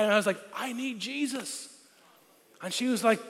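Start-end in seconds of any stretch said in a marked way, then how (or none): 0.6-1.7 soft, slow and solemn; hushed earnest plea. Retold or imitated. Teen confessing to his parents, soft and slow. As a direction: say it softly and slowly like a confession.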